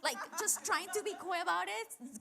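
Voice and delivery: high, sweetly coy; coyly hide the annoyance; coy Martha. Retold or imitated. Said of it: "I imagine Martha being like".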